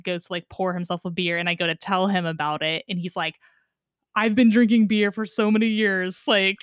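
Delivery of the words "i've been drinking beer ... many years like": joking indignation. Retold or imitated. Dad jokingly rebuffs kid's keg advice, mock indignant. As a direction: playfully brush off the advice, pitch jumping up. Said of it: "Like, super joking, like, just being funny".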